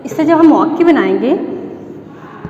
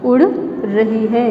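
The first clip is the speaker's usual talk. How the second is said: उड़ रही है drawn out slowly and lower, like dictation; 3 semitones lower, slower than usual. Shown as a demonstration. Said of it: "teacher repeats it slowly for writing".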